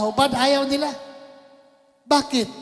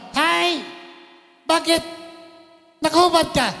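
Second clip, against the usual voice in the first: mock shout; 6 semitones higher than usual. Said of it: "sumigaw na".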